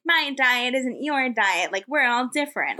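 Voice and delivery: lilting, drawn-out influencer voice; Instagram voice. Retold or imitated. Podcaster mimicking girls on Instagram, mock influencer voice. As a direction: stretch it like an Instagram girl. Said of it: "that's my, like, Instagram voice".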